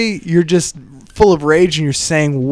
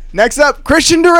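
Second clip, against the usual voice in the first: announcer callout; 10 semitones higher than usual. Retold or imitated. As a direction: hype the next comic's name. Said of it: "And then they're like".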